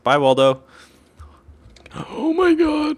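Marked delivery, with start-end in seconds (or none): 1.9-3.0 long high shout. Real, not acted. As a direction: yell it out, drawn out. Reacting to game chaos.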